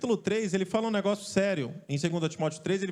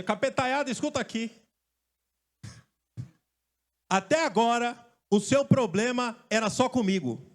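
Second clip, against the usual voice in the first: Jesus rebuking demons; slower than usual. Retold or imitated. Jesus voiced addressing the demons.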